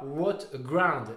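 English words in a clumsy French accent; bad English accent. Real, not acted. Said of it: "avec mon accent anglais".

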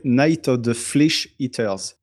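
the title said slowly in an English accent. Shown as a demonstration. Podcast host shows off his English accent to his co-hosts, slow and careful. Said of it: "vous avez vu mon accent anglais".

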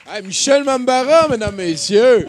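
high, very loud stage announcement; announcer shout. Real, not acted. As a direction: shout the act's name for applause. Animateur fait applaudir l'humoriste. (annonce criée, forte et aiguë)

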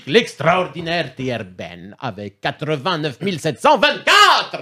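slow, drawn-out mock Italian game show host; grand winner announcement. Host crowns the quiz winner in hammed-up Italian style. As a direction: stretch every word like an Italian host crowning the champion. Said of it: "les gagnants en V F, mais avec un accent italien".

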